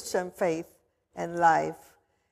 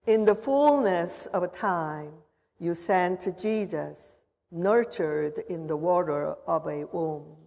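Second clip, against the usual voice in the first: prayer; 2 semitones lower than usual. Acted. Pastor prays over the water.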